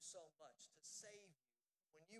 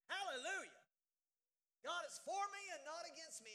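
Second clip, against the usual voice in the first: loud proclamation of faith; fervent preaching; 7 semitones higher, 9 dB louder than usual. Acted. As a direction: declare it to the whole church. Preaching confession to congregation.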